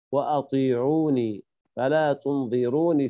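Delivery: وأطيعوني and تنظروني slow, each ending in long ee; Ya'qub's added ya. Shown as a demonstration. Teacher listing Ya'qub's readings, وأطيعوني and تنظروني with held final ee. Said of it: "اقرأها يعقوب".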